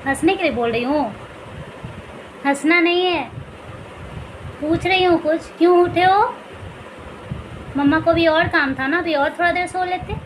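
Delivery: playful scolding coo at a just-woken infant. Real, not acted. Mother cooing at her baby. (बच्चे से लाड़ भरी तुतलाती आवाज़ में)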